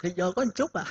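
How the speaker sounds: ordinary talk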